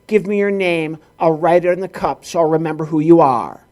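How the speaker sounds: imitated clerk reciting a routine; mock mechanical recitation; by rote. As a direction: rattle it off as a memorized script. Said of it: "just going by rote".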